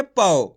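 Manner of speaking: पाओ said as pa-o with a clear au; pron demo. Shown as a demonstration. Teacher models पाओ for students learning the au sound. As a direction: stretch पाओ into pa-au for the class. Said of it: "तो पा का उच्चारण कैसे करेंगे?".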